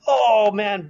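high, exclaimed pretend dismay; mock dismay. Imagining a building falling on you, mock dismay. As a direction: cry out as if disaster just struck, playfully. Imagining being caught in collapsing rubble.

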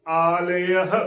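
ਆਲੇਹ with long aa, then a separate e-ah; correct pronunciation. Shown as a demonstration. Teacher shows listeners the pure reading, careful pronunciation. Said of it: "ਸ਼ੁੱਧ ਉਚਾਰਨ ਹੋਵੇਗਾ".

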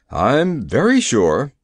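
slow, mildly trembling reply. Acted. The frightened Nome King answers Ozma, a touch of trembling. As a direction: answer slowly with a faint tremor of fear. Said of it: "answered the King tremblingly".

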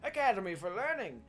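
proud headmaster welcome address; rally the new students grandly; rousing speech. Acted.

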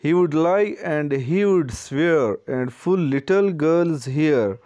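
slow, measured verse reading; teacher's deliberate line-by-line recital; poem read aloud. A narrator's reading. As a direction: read the verse out slowly for a class. Reads the poem aloud to class.

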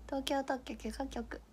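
東京特許許可局 said slowly and softly, syllable by syllable; careful slow tongue twister; soft, slow enunciation. Shown as a demonstration. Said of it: "滑舌改善してきて".

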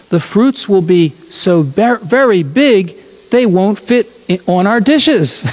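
lightly lilting storybook read; reading to children. Acted. Pastor reading a children's book to the congregation, storybook lilt.

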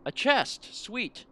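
high-pitched delighted exclaim; thrilled at the find; excited. Real, not acted. Finding a treasure chest.

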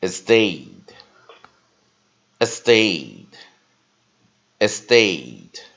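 estate said clearly, stressed on the second syllable, a schwa first; model pronunciation. Shown as a demonstration. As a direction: repeat estate slowly like a dictionary. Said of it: "let's check the vocabulary words again".

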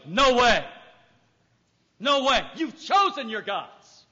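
loud, firm no way; God refusing. Pretend. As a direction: shut them down hard.

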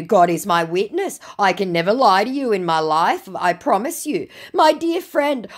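a wounded, wheedling scammer; mock scammer voice. Scammer pleading, chat read out.

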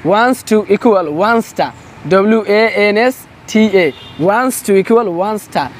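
very slow "wants to equal one star" with "wants" leaned on; teacher drilling slowly. Shown as a demonstration. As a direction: stretch each word like a classroom drill. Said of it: "spelling drill".

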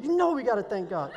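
laughing, lightly hammed-up street-style dad; mock ghetto dad. Dad urges his son to thank God, light mock ghetto voice. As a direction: play the dad getting excited and ghetto, with a laugh. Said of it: "He gets, like, really ghetto".

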